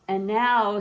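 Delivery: a little girl playing ringmaster; showy announcer sister. Zelda announces the show.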